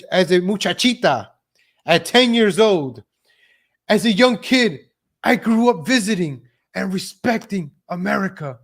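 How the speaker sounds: emphatic read-aloud with lifted pitch; mock recital. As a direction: declaim the written statement phrase by phrase. Reads her statement aloud, mockingly.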